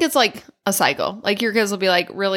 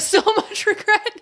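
much higher and slower, "regret" stretched out; bigger mock regret; 12 semitones higher, slower than usual. Echoing her own lament to a friend, higher and drawn out. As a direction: overplay the despair the second time round.

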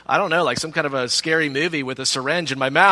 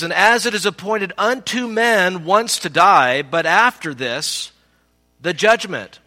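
Scripture reading; 4 semitones higher than usual. Real, not acted. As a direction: proclaim the verse with measured weight. Reads Scripture to congregation.

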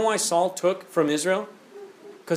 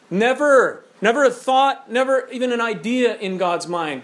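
emphatic never; 4 semitones higher than usual. Real, not acted. Emphatic preaching rebuttal.

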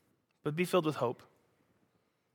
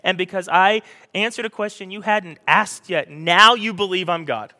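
louder, exasperated mock rant; exasperated Jesus; 2 semitones higher, 8 dB louder than usual. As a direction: list the miracles in disbelief. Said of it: "And he goes".

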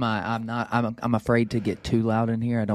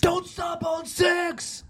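high drawn-out preacher shout; semi-yell preacher; much slower than usual. Retold or imitated. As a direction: preach it like a megachurch pastor. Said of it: "was that your Stephen Furtick voice".

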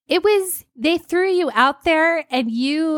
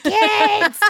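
put-on higher, louder bark of a mean old teacher; old teacher's voice; 6 semitones higher, 3 dB louder than usual. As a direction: call the class like a cranky sixty-eight-year-old. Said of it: "a sixty-eight-year-old with a voice like this".

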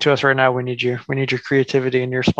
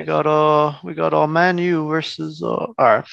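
put-on British accent. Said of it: "in a British accent".

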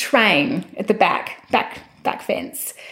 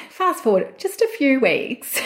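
laughing; 6 semitones higher than usual. Real, not acted. Laughing while recounting progress.

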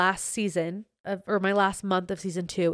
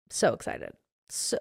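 breathless whisper; excited whisper; 3 semitones lower, 6 dB quieter than usual. Real, not acted. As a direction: whisper it like a secret thrill. Gushing about the trip.

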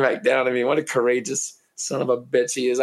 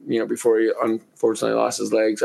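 ordinary talk, nothing marked

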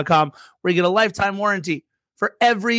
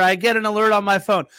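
normal talking voice

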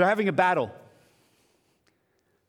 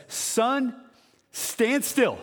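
commanding call; 6 semitones higher, much slower than usual. Retold or imitated. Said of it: "he looks up at the skies and says".

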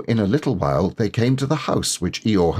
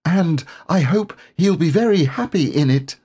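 grandly; 10 semitones higher than usual. Acted. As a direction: give it away with great dignity. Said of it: "he said grandly".

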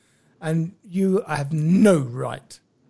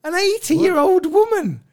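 incredulous; 10 semitones higher, 5 dB louder, faster than usual. Real, not acted. Incredulous repeat, rising outrage.

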